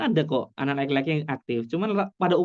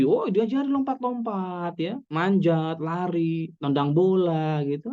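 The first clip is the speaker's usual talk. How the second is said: lively and much higher, slower, drawn out; animated; 4 semitones higher, slower than usual. Acted. Lecturer to parents, brightly enthusiastic about boys jumping. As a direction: cheer the idea on like it's fun.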